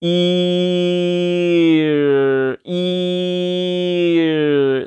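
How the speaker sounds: very long "일", a held ee melting into an American R; E gliding into R. Shown as a demonstration. Teacher demonstrates the R sound, long gliding "일". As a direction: stretch "일" slowly from ee into R without rolling the tongue. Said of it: "살짝만 이렇게 떼줘도".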